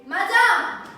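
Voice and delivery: sharp, loud cry of protest; bursting out in offended alarm; indignant exclamation. Acted. Indignant outburst at rival.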